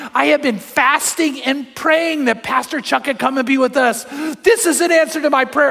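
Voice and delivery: high, earnest mock crying plea; retold tearful cry, lightly acted; imitated tearful outburst. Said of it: "She burst into tears, crying and crying".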